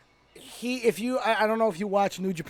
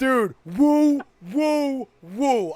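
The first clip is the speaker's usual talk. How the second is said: excited cheering; 5 semitones higher, 5 dB louder, much slower than usual. Real, not acted. Cheering Zack Ryder outfit.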